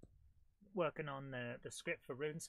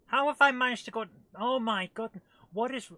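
loud, high disbelief; exasperated outburst; 7 semitones higher, 10 dB louder than usual. Real, not acted. Player stuck in a mission, loud exasperation. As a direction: burst out at your own blunder.

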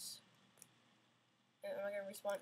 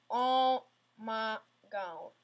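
exasperated drawl; 6 dB louder, much slower than usual. Real, not acted. Fails the jump again.

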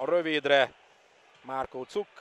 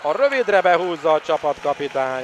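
excited commentary; 3 semitones higher, 6 dB louder than usual. Real, not acted. Home attack and goal.

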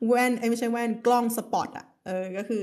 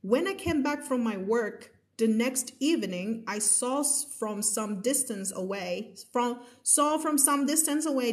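slow story reading; 3 semitones higher, much slower than usual. A narrator's reading. Rereads passage slowly for class.

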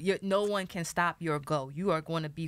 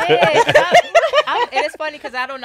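high, loud laughter through words; laughing; 8 semitones higher, 17 dB louder than usual. Real, not acted. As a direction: talk while cracking up. Laughing hard at the joke.

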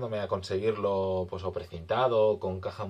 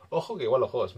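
laughing; 2 semitones higher, faster than usual. Real, not acted.

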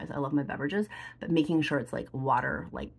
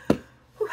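emotional exhale; 5 dB louder than usual. Real, not acted. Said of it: "gonna get emotional".

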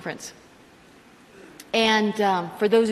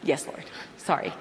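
sheepish, much lower and softer; meek apology; 8 semitones lower, 8 dB quieter than usual. Retold or imitated. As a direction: mumble it like a caught child. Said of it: "And I was like".

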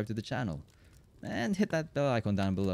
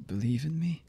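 disbelieving question; 6 semitones higher than usual. Acted. Disbelieving question to loved one.

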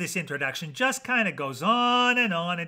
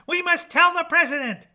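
high, loud clucking alarm; shrieky chicken sounding the alarm; panicked clucking hen; 12 semitones higher, 7 dB louder than usual. A narrator's reading. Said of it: "clucked Chicken Licken".

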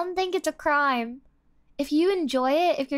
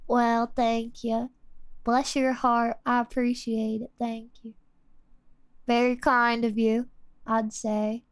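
put-on Texan accent; 3 semitones lower than usual. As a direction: lay on a polite Texan accent. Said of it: "my Texan Lisa is good".

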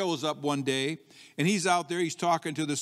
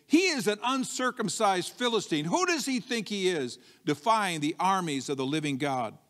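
defiant David; 2 semitones higher than usual. Acted. Preacher voicing David against the Philistine, defiant. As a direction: challenge them with bold outrage. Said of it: "same kind of an attitude".

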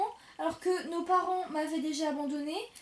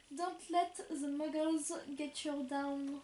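slow careful reading; 4 dB quieter, slower than usual. Shown as a demonstration. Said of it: "c'est moi qui lis cette fois".

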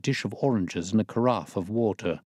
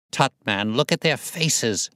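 curt; 5 semitones higher than usual. Acted. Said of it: "cried Holmes curtly".

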